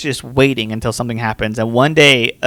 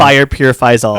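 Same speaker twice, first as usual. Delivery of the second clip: lightly put-on deep Russian accent; a hint of a grave Russian accent; 4 dB louder than usual. Comic quote of Lodi accusing Romanov, deep Russian accent. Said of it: "in a deep Russian accent".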